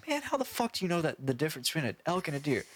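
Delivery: theater guy demanding how his friend knows; incredulous moviegoer. Retold or imitated. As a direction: rattle it off in disbelief. First guy voiced, incredulous.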